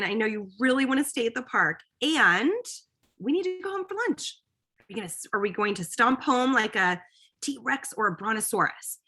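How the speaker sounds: put-on bright, playful parent coaxing a kid. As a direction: make leaving the park a dinosaur game. Playful parent voicing to child.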